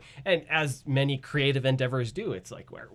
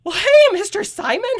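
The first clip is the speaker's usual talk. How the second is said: very high, loud cartoon voice; high-pitched goofy cartoon character voice; Jake's voice; 13 dB louder than usual. Shown as a demonstration. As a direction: squeak it out way up high like Jake. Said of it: "and now it's very much like".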